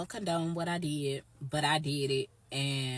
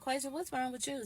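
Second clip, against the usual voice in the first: higher, sing-song concerned question; high imitated friend; 9 semitones higher than usual. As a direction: mimic a friend's prying high voice. Friend asking again, imitated.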